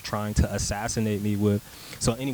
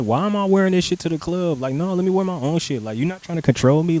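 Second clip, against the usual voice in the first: higher, faster mock indignation; retelling a huffy refusal, pitched up and quick; indignant protest; 5 semitones higher, 4 dB louder, faster than usual. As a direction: push back like you can't believe it.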